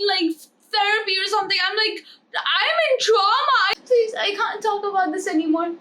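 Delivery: mock American girl, overwhelmed by a dead ant; American valley girl. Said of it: "Then we have the Americans".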